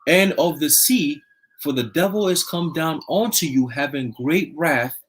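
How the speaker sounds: slow, solemn Bible reading; scripture reading. Acted. Reading Revelation to listeners, slow solemn scripture voice. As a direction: intone the verse slowly like a preacher.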